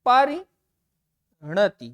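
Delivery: परिणति drawn out syllable by syllable, very slow; slow clear spelling-out. Shown as a demonstration. Teacher to students, slowly spelling out परिणति. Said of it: "इसका सही उत्तर होगा आपका".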